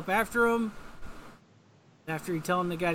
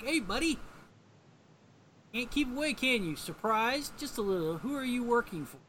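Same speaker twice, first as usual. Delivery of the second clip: mock villain taunt; 5 semitones higher than usual.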